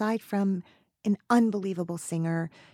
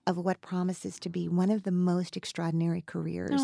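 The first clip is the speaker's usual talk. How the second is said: heartfelt tribute; 2 semitones lower, 4 dB quieter than usual. Real, not acted. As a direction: speak softly, moved and sincere. Heartfelt tribute to her guest.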